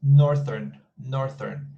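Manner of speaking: "Northern" said firmly, holding the final n; clear answer. Shown as a demonstration. Teacher answers a student's question with a clear "Northern". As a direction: state "Northern" clearly, leaning on the first syllable. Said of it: "is north or northern?".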